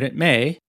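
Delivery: "may" set apart with deliberate weight; slow lead-in, leaning on "may"; measured, pointed emphasis on the word "may"; stress on MAY. Real, not acted. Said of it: "I emphasize the word may".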